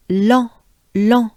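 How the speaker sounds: "lent" with a nasal en and no t; "lent" voiced through the nose. Shown as a demonstration. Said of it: "so en again".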